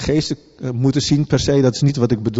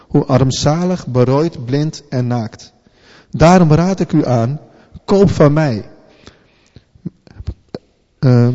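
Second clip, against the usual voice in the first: scripture reading. Acted. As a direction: proclaim the words to the church. Reads Jesus' words aloud.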